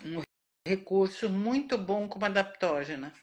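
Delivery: speaking with a sore, cut tongue; injured tongue. Real, not acted. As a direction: talk carefully around a hurt tongue. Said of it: "Eu tô falando um pouquinho, diferente". (falando com a língua machucada)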